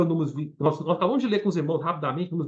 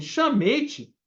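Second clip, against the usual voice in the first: angry king reading; 5 semitones higher than usual. Retold or imitated. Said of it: "Ficou bravo, falou assim".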